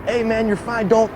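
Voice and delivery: urgent paramedic. Retold or imitated. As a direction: keep him awake, coaxing and urgent.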